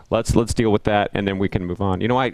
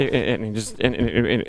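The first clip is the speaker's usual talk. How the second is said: rambling tweaker imitation. Describing a talk with a tweaker, mock rambling stammer. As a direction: stammer like a lightly voiced tweaker. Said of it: "it was just talking like that".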